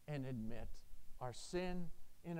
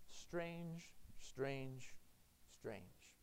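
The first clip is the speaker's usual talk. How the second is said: fading strange; 2 semitones lower, 8 dB quieter, much slower than usual. Acted. Preacher marvels, fading.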